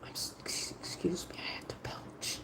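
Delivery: hushed unvoiced whisper. Real, not acted. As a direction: whisper it so nobody hears. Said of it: "Why did I whisper that?".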